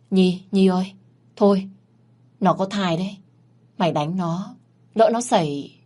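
usual speaking voice

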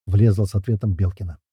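plain reading voice

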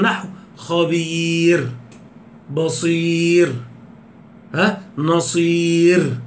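خبير، بصير، نصير said very slowly with a thin final ر; slow tajweed demo. Shown as a demonstration. Teacher demonstrating pausal thin ر to class, slow and deliberate. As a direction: draw out خبير and stop on a thin ر. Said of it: "كل ده الراء مرققة".

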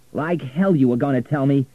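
loud, high retort; angry. A narrator's reading. Richard rejecting Florentina's excuse, angry and loud. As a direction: throw it back angrily. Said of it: "never seen Richard angry before".

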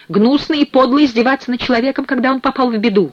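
high-pitched indignant protest; chicken man's outburst. A narrator's reading. Chicken man protests being mocked in misfortune, indignant. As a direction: burst out high and wounded. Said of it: "Снова прорвался голос курицы".

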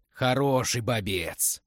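put-on slow, drunken blurt. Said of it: "пьяно брякнул Верзила". (пьяно брякнув)

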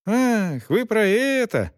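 high, relieved coachman's voice; suddenly he gets it and is glad; delighted. A narrator's reading. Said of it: "обрадовался кучер".

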